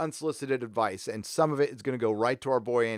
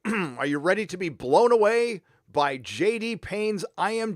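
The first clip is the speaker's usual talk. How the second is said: sarcastic hype; 3 semitones higher than usual. Acted. Sarcastic build-up to a reveal.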